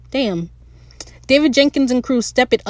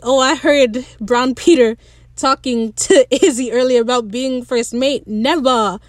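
imitating a New Zealand accent; playful New Zealand accent with dropped r's; 2 semitones higher than usual. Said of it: "I love the New Zealand accent".

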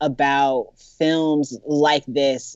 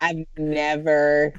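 laughing; slower than usual. Real, not acted. Laughing reply.

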